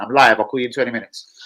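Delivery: put-on northern accent, opening loud then easing off. Streamer replaying his words to a caller, northern accent. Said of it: "I was doing a northern accent".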